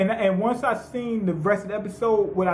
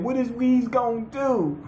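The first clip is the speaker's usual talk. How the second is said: high-pitched mock fretting; imitating someone anxious, pitched up; nail-biting worry; 4 semitones higher than usual. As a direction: retell it as a nervous nail-biter. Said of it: "he got the biting his nails and everything".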